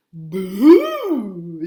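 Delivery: sudden loud "Boo!"; a scary dream shouting "Boo!". Acted. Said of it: "said the dream with a dreadful grin".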